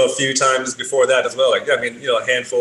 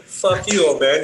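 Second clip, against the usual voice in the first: higher-pitched mock defiance; retold defiant retort; 5 semitones higher, slower than usual. DJ talking back to Phelps, mock defiance. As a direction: throw back an insult, imitating the DJ.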